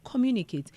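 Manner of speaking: "communicate" said firmly with falling tune; stressed communicate. Shown as a demonstration. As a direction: lean on "communicate". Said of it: "If something is not going well, communicate".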